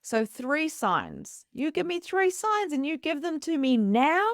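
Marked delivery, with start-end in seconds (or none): 1.5-4.3 high, insistent retold demand; demanding ultimatum. Bargaining with spirit for three signs, insistent. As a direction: lay down terms, pitch held up.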